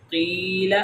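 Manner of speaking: قیل with a long held ee; long vowel. Shown as a demonstration. Teacher drills ya madda, قیل drawn out. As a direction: stretch the middle of قیل. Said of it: "ہم اس کو لمبا کر رہے".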